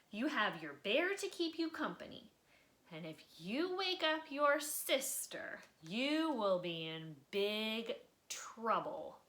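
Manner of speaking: a hint of fed-up parents warning; lightly voiced parental warning; stern parents. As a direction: warn the kid to stay in bed. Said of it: "His parents were fed up".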